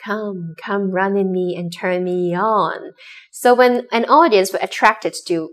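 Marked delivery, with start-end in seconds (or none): 0.0-2.9 slow, slightly softer invitation; lightly voiced beckoning call, drawn out; installation's voice. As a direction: slowly coax someone in. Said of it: "there is voice say".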